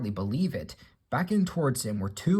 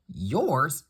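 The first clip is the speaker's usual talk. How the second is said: a mild, louder incredulous yelp; exclaiming; 4 semitones higher, 4 dB louder than usual. Acted. Henry answers Duck's tender offer, incredulous exclaim. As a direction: scoff in disbelief. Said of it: "exclaimed Henry".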